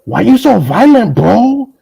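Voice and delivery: slow, whining mock of the other side; mock whiny complaint. Mocking a rival who calls him violent. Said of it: "Then I gotta get the".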